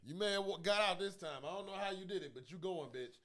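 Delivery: death taunting. Retold or imitated. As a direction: taunt the one who got away.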